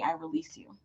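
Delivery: "I release you" floated high and soft, rising on "I". Shown as a demonstration. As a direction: lift "I release you" up high and let it go gently. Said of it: "burn it at the full moon and say".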